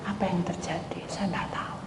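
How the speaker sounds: quiet prayer in a tense moment; whispered prayer. Retold or imitated. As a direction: whisper it to God humbly.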